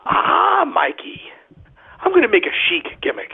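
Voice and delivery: high squeal on the Ah, then a mimicked whiny drawl; imitating Vandy. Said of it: "So he goes".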